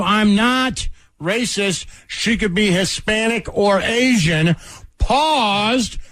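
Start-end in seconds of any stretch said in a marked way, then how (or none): 0.0-4.6 mock defensive. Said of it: "he went from there to".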